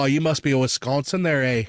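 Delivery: lightly put-on Canadian accent; full Canadian accent. Quoting Michigan people teasing a Wisconsinite, mock Canadian accent. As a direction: imitate a Canadian-tinged Midwest accent. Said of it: "I just went full Canadian".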